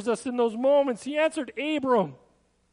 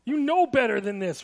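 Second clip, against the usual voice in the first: stern parent. Retold or imitated. Parent scolding a child, firm and reproachful. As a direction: scold like a parent who has said it before. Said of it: "a common statement from parents".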